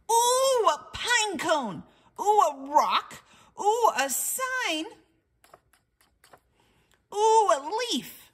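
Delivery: high, loud delighted ooh; excited squeals. Acted. Wordy Birdie thrilled by things in the woods, squealing. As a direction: gasp at each new find. Bird excited at every find.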